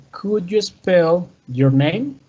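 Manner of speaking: "Could you spell your name?" spoken slowly and clearly; slow model sentence. Shown as a demonstration. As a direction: read it slowly for learners. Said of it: "we have the example".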